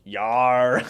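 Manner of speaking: mock thug grunt. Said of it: "He's like".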